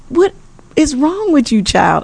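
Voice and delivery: high-pitched mock yell at mom; retold scream. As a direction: scold her like a shocked daughter. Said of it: "she's screaming".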